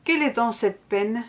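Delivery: slow, measured reading with long pauses; poem recitation. Acted. Poet reads her workshop poem Dérive to viewers, slow poetry recitation. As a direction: recite line by line, letting each phrase settle.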